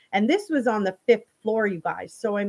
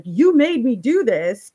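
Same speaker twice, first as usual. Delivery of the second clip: retold angry outburst; 3 semitones higher, 6 dB louder than usual. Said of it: "Trevor starts freaking out".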